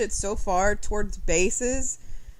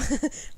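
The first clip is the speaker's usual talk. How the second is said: small high sneeze like a mouse; a quick mousy sneeze; tiny squeaky sneeze; 6 semitones higher, 5 dB quieter than usual. Real, not acted. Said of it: "that was my sneeze".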